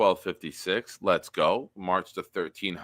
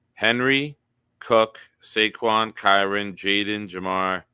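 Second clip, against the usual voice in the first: calling names out; 4 dB louder, slower than usual. Real, not acted. Calling out parlay legs.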